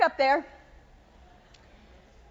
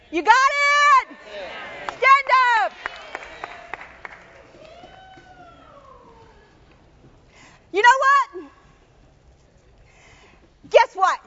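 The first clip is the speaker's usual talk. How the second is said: rallying shout; 4 semitones higher than usual. Real, not acted. Preacher rallies crowd.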